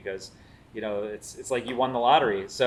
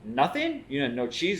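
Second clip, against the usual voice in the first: much higher, mock-shocked "Nothing?"; 8 semitones higher than usual. Fan shocked the chef has no Wisconsin cheese, mock disbelief. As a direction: jump way up in disbelief.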